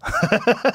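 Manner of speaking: a high mocking laugh at the angry guy. Laughing at the driver as he walks off, high mocking laugh. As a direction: laugh in his face, up high. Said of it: "I grabbed my car door and I went".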